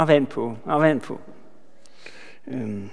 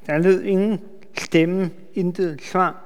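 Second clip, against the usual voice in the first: soft echo; 6 dB quieter than usual. Shown as a demonstration. Preacher quietly echoing the verse for the congregation, hushed. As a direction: repeat it softly, letting it sink in. Echoes verse softly after reading.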